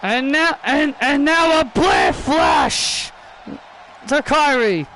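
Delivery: slow, drawn-out ringside yell; stretched play-by-play holler; commentator shout. Acted. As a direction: call the move like a hyped commentator. Commentator calling a wrestling move.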